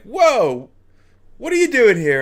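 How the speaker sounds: high, loud astonished whoa; surprised parents. Retold or imitated. Parents shocked to see their son walk in, high and loud. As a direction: jump up in shock at the sight. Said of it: "looked at me like".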